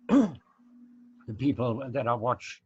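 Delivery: hoarse, losing voice; rough hoarse voice, clearing throat. Real, not acted. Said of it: "I'm losing my voice now".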